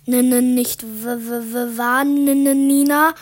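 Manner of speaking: loud, stuttering with fear; trembling voice. Acted. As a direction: stammer every word, scared stiff. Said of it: "sagte ich mit zitternder Stimme".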